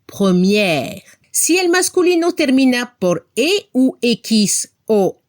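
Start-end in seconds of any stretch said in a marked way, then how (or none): 0.1-1.0 première said with the mouth opened wide on the final è; open mouth French. Shown as a demonstration. Teacher showing students the feminine première, mouth open. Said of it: "Abremos la boca para pronunciar al femenino".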